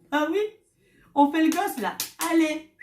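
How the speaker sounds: high, loud, eager push; excited rallying call. Retold or imitated. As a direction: cheer him on like a coach. Elle relance son mari, excitée. (encouragement excitée et forte)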